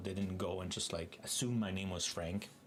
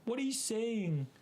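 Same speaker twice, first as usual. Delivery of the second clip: puzzled French person; 12 semitones higher, 3 dB louder than usual. Retold or imitated.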